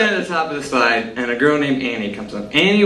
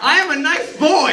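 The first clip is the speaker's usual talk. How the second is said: laughing protest. Real, not acted. Punchline after slapping story.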